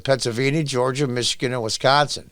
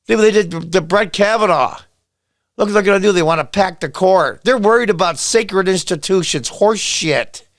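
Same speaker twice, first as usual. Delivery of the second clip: heated rant; 3 semitones higher than usual. Real, not acted. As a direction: pile on the grievances. Ranting louder.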